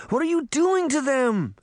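very high, distressed plea; panicked cry, pitch soaring; begging. A narrator's reading. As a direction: beg for it to stop. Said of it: "Sabrina begged".

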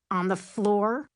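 slow, incredulous question; drawn-out indignant query. A narrator's reading. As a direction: stretch it out in affronted disbelief. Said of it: "River asks indignantly".

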